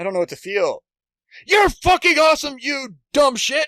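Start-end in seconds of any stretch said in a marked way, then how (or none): 1.5-3.7 very loud, high, furious angry hollering. Describing a woman who yells at him, imitating her angry yelling. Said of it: "she's yelling things in an angry voice".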